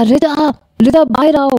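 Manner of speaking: shouting for her to come out; calling out loudly. A narrator's reading. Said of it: "بلند لہجے سے کہا". (اونچی آواز میں دھیرے دھیرے پکارنا)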